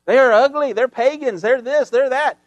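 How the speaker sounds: mock crowd hollering in agreement; cheering crowd. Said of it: "They're hollering".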